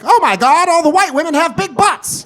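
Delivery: high-pitched amazed outburst; astonished. Retold or imitated. Fifties folk first see Instagram, astonished. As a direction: exclaim it high, utterly floored.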